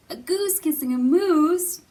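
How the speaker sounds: high, loud mock surprise; mock amazement. Teacher acts amazed at the goose for children. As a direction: act amazed for the kids.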